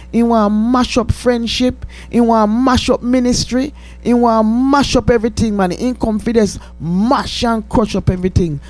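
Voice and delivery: fervent rising rebuke, building in force; preaching rebuke. Acted. Host rebuking Satan on air, fervent preaching. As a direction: cast the devil back down his hole.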